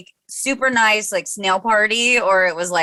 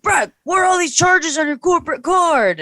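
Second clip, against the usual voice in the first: higher-pitched mock boss from Bensonhurst; hammed-up Italian boss voice, pitched up; 10 semitones higher than usual. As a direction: boss calling in an employee, a lightly voiced Italian boss. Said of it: "thick Italian accent".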